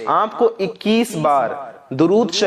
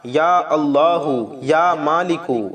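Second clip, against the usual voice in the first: slow, drawn-out invocation of God's names; slow prayerful invocation; dhikr recitation; much slower than usual. Shown as a demonstration. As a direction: chant the names slowly and devoutly. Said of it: "یہ ہو گیا پانچ بار".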